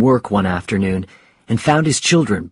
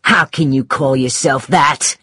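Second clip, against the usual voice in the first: higher-pitched accusing cry; wife's pitched-up outburst; 4 semitones higher than usual. Acted. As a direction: cry out at your husband in outrage. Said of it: "cried Sarah".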